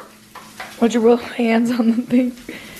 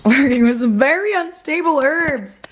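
laughing; 6 semitones higher than usual. Real, not acted. Repeating partner's line laughing.

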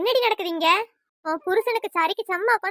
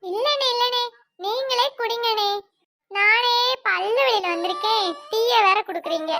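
higher, slow woman's voice, politely refusing; visiting woman refusing; 5 semitones higher, 4 dB louder, slower than usual. Acted. Vanasa turning down the tea because of toothache, higher and slow. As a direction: lift the voice and drag it out as the modest guest.

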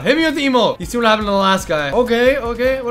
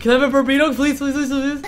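eager, playful pleading; playful begging; 2 semitones higher, faster than usual. Pretend. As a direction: beg in a rapid string of pleases. Begging a friend for burrito.

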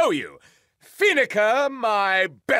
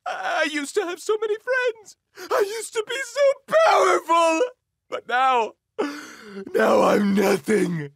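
blubbering; 4 semitones higher than usual. Acted. Rick weeping in the sand.

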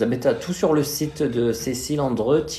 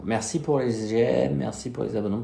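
lisping; 3 dB quieter than usual. Real, not acted. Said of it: "Pourquoi je zozote comme ça".

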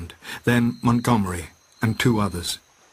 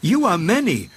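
high, urgent rallying cry; shouting; 8 semitones higher than usual. A narrator's reading. Prendick shouting past Moreau to the beast men. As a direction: rouse the beast men against their masters. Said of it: "shouting past him to the beast men".

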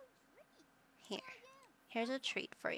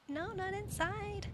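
scolding a pet; 10 semitones higher, slower than usual. Real, not acted. Scolding dog about peeing.

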